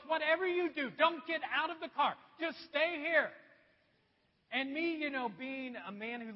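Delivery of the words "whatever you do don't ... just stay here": louder, insistent warning; wife urging him to stay in the car, insistent and louder; urgent warning. Retold or imitated. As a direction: mimic the wife's urgent plea. Wife warning about bears.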